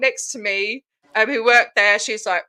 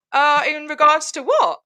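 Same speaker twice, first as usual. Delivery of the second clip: slow, higher-pitched questioning reply; puzzled comeback; 4 semitones higher than usual. Retold or imitated. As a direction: act out innocent puzzlement, drawn out. Puzzled reply to the intimidating official.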